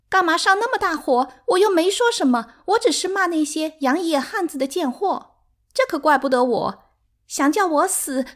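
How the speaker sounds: very high, loud, taunting tirade; provoking, defiant. A narrator's reading. Sixth wife daring her rival to strike, defiant. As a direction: goad her on in a high, agitated voice.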